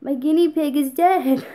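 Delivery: replaying her own upset cry; retold scream. Telling grandma about the dead pet, a mild mock yell. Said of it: "as I scream".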